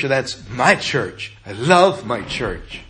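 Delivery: slow, quiet, "my" and "love" given tender weight; heartfelt, soft. Shown as a demonstration. Pastor urging congregation to love their church, tender. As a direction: say it like you mean it, gently. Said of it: "So it is with your church".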